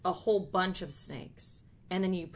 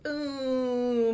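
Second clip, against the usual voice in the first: triumphant; 7 semitones higher, 6 dB louder than usual. Real, not acted. Triumphant mic-drop.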